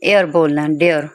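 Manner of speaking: low falling डियर with "e-ar" vowel; "air" sound demo. Shown as a demonstration. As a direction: model एयर, then डियर. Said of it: "इसको आपने".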